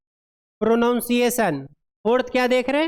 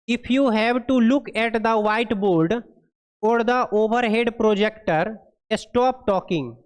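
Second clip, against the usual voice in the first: very slow, word-by-word reading of English text; deliberate classroom read-aloud; slow dictation read; much slower than usual. Acted. Reads English guideline aloud.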